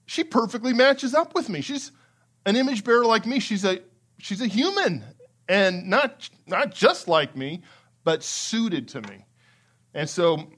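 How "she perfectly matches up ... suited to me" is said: higher, eager, delighted declaration; excited Adam. Retold or imitated. Preacher voicing Adam greeting his wife, excited. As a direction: rejoice at a perfect match. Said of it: "Adam is super excited".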